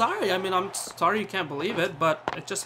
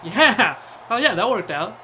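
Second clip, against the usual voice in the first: loud laughing yeah; laughing cheer; 4 semitones higher, 6 dB louder than usual. Real, not acted. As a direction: burst out laughing in triumph. Shot works out.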